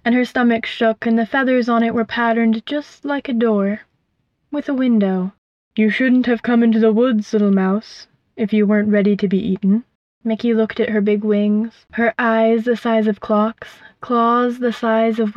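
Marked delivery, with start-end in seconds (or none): 5.7-9.8 lightly voiced menacing owl; a hint of a predator teasing its meal. Owl warns the mouse.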